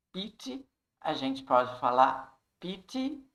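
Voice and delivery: "pity" with a crisp T; British-style pity. Shown as a demonstration. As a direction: say "pity" with a true T sound, British way. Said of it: "ou pity". ("pity" com T bem pronunciado, à britânica)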